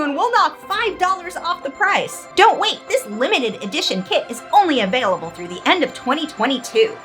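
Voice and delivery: over-the-top TV ad pitch; infomercial. Acted. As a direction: sell it like a late-night infomercial. Parody infomercial read by S0.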